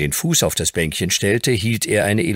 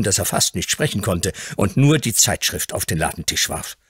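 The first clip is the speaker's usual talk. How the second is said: ordinary talk, nothing marked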